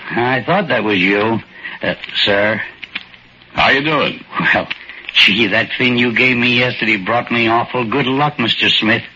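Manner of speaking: put-on a shy old-timer, grateful and unsure; timid little old man.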